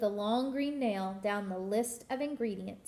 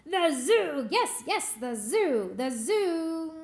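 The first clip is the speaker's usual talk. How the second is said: higher, louder eureka; excited witch; 4 semitones higher, 4 dB louder, slower than usual. Acted. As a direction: shout the idea gleefully.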